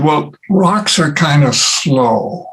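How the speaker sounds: lightly imitated slow delivery; slow, drawn-out quote. Friend explaining why rocks answer late, slow and drawn out. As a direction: take your time, stretching the words.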